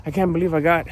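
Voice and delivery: lightly acted grumpy rant; grumpy complaining. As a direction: imitate yourself griping about everything. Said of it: "be grumpy and like".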